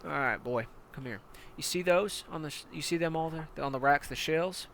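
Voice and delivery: hard-nosed commander barking orders at a recruit; menacing armored battalion commander; tank commander. Acted. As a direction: lean in like a brutal drill sergeant. Commander shows the shell racks.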